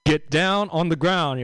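slow, barked cop command in an L.A. police voice; police megaphone order. Retold or imitated. Comic imitating the police helicopter's order, mock cop bark. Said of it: "Kinda goes like".

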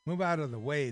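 loud, high order to move aside; commanding shout. Acted. Royals ordering the cubes aside, loud shout. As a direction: bark it at the rebels.

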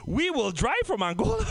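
slow, formal announcer voice; a hint of an African official. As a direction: read it out slowly like an official notice. Angolan coach announcement, acted.

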